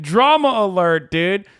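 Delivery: loud slow hammed-up announcer; mock Drama Alert intro. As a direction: belt it like a news intro.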